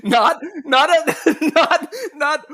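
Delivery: high, laughing nots; breaking into laughter, up high; laughing protest. Real, not acted.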